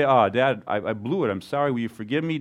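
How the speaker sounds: contrite confession. Retold or imitated. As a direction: humbly ask dad's forgiveness. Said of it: "come back to your dad and say".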